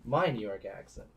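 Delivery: "my" pushed forward, correcting; stress on my. Real, not acted. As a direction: lean on "my" to fix who is meant.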